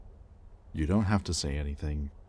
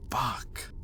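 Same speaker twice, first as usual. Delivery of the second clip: whispered curse; 7 semitones higher than usual. Acted. Cursing to himself, frustrated.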